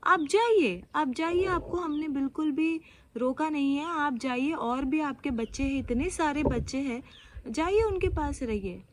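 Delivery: mildly heated, imitating a husband confronting someone; retold confrontation. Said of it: "confront किया उनको".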